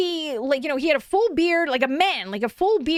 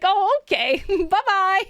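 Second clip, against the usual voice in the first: lightly imitated bashful man, higher; shy goodbye; 4 semitones higher, slower than usual. Shy man turned down by tourists, lightly imitated higher and bashful. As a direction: mimic a timid guy bowing out. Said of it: "really shyly being like".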